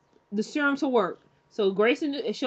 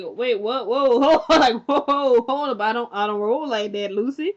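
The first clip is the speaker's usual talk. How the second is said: louder, alarmed backing off; startled Mina; 2 semitones higher, 5 dB louder than usual. Retold or imitated. Mina dodging Lucy's kiss, loud and startled. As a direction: pull back fast, laughing in shock. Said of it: "Mina's like".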